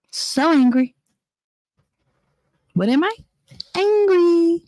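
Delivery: mock-frantic angry outburst; bursting anger. Real, not acted. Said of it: "I'm so angry right now".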